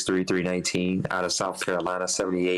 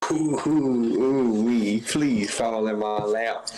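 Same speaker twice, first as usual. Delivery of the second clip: excited hoping; 3 semitones higher, slower than usual. Real, not acted. Hoping a player falls to him.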